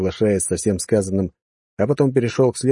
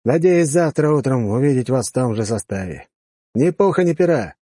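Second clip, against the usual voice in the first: commanding officer; 4 semitones higher than usual. Acted. Officer bids farewell.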